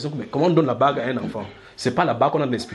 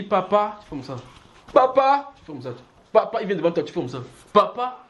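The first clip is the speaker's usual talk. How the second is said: high calls of papa, tu fais comme ça dropped almost to nothing; a child tugging at his father, calling out papa; child pleading; 5 semitones higher than usual. Retold or imitated. Son pleading with angry father.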